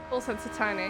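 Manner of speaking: low, polite phone operator voice; call centre voice. Pretend. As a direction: customer service voice. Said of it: "do you like my call centre voice?".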